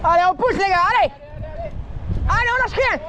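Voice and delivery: gym bro. Real, not acted. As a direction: cheer them up the climb like a coach. Papa encourage les enfants en montée. (encouragements criés comme un coach)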